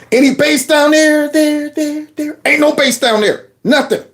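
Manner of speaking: lightly high calling down a hole; mock calling down. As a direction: call down into the dark, a bit high. Calling down into hollow.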